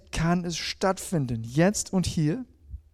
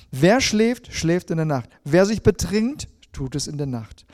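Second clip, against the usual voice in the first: emphatic verse reading; 4 dB louder than usual. Acted. Forceful reading of Bible verse.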